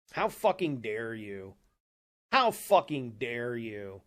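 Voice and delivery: each word slow and weighted with anger; a slow, seething how fucking dare you; slow furious repeat. Real, not acted. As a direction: spell out the outrage word by word. Furious rant at online critics.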